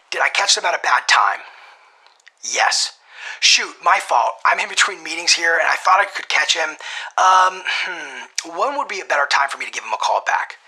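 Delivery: loud, hurried, apologetic busy caller; busy professional. Shown as a demonstration. Cold caller acting busy to the gatekeeper, hurried and apologetic. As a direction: play someone rushing between meetings. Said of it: "get into character under this part".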